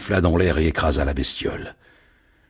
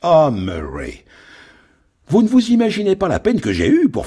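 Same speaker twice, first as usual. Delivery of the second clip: a lightly voiced sly villain, higher; scheming shipowner; 4 semitones higher than usual. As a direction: gloat slyly like a crooked boss.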